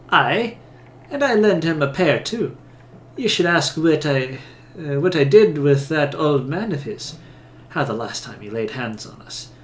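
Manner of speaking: amateur Scots-flavoured brogue; Isilmir's accent. Acted. Awakened soul brags of hurting the old man, attempted Scots-style accent. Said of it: "Isilmir's accent".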